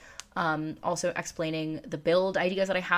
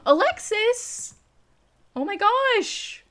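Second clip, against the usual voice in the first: slow, high surprised squeal; 6 dB louder, much slower than usual. Real, not acted. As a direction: shriek with delight. Surprise super chat arrives.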